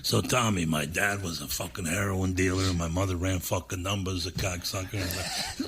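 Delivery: slow, drawn-out comic impression; Joey Diaz. Joey telling Tommy about his parents, slow impression. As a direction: stretch out the swearing in his voice. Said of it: "You know Joey?".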